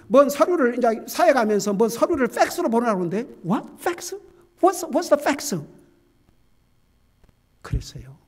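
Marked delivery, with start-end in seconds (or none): 3.5-5.6 baffled. Retold or imitated. Acts out bafflement at hearing of fax.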